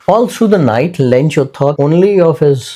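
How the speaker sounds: reads the story line slowly and clearly; careful classroom reading, each phrase spaced; slow textbook reading; slow read-aloud. Acted. Teacher reads story text aloud.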